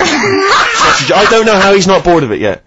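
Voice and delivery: exasperated laugh, words breaking into laughter; laughing disbelief. Real, not acted. Laughing about Ricky's diet.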